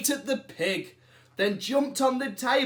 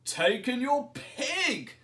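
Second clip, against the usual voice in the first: put-on wise old man; 7 semitones higher than usual. A narrator's reading. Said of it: "said the wise old man".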